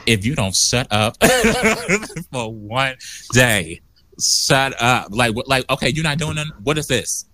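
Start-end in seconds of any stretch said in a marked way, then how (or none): 0.1-5.1 low scolding self-talk. Retold or imitated. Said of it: "I'm like".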